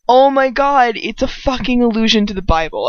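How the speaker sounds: mock astonishment at a discovery; acted-out realization. Acts out own sudden realization.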